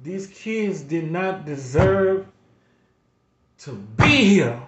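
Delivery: pleading, close to tears, pushing through; emotional. Real, not acted. Grandfather on his channel, overwhelmed thinking of his kids, emotional. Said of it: "I get a little emotional".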